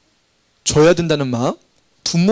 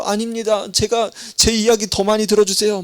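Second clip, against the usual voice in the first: higher, insistent plea cutting in; competing petitioner; 6 semitones higher than usual. Acted. Rival subject pleading with the king, higher insistent voice. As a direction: push your own case over the other.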